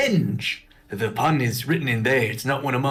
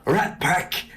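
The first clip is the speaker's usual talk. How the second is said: put-on dumb rat boy voice. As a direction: play a dim, eager rat kid. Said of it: "dumb rat boy voice".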